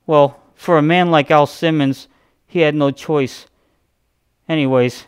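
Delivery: a light mock intro-host voice, posing dramatic questions; lightly voiced awkward comic creator; Todd McFarlane impression. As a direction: play the awkward creator hosting his own intro. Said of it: "that's exactly how he talks".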